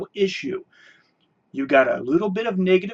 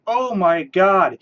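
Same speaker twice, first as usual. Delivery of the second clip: mock gushing. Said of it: "and everybody said".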